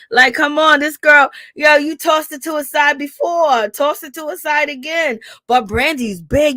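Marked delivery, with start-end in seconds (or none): 0.1-5.2 higher and louder, yelling at her; exasperated shout. Real, not acted. Ranting at Malaysia to fight back, shouting. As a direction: come on, raise it up in frustration.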